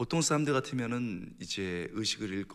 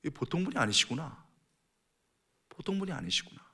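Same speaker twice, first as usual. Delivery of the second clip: dawning realization. Acted. Criminal suddenly realizing who Jesus is, mild amazement. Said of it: "깨달아지는 거예요".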